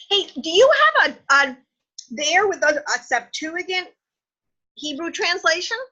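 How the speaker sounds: talking while eating popcorn; words around a mouthful of popcorn; munching popcorn. Real, not acted. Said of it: "I'm sorry, I'm eating popcorn".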